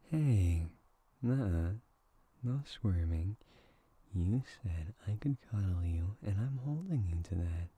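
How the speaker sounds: playful scolding. Acted.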